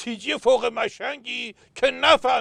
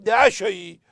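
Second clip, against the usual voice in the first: higher bargaining voice; 10 semitones higher, 4 dB louder, slower than usual. Acted. Governor haggling in joke.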